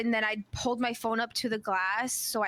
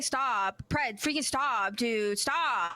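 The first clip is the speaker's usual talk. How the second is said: exasperated yelling; much slower than usual. Acted. Player begging Pred to stop blowing the door, mock yelling. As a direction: plead in a half-raised yell. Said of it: "I'm literally saying".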